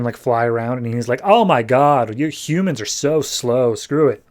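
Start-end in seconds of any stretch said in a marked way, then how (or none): 1.2-4.2 mildly douchey mock voice; a touch of cocky disdain. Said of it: "being real douchey and cocky".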